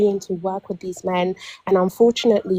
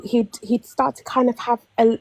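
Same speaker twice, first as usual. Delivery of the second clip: normal talking voice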